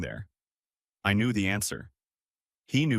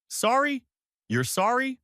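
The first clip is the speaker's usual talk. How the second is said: much higher, incredulous shriek; outraged disbelief; 14 semitones higher than usual. Acted. Throw the word back in shock. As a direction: sister scoffing at the apology, shrill outraged disbelief.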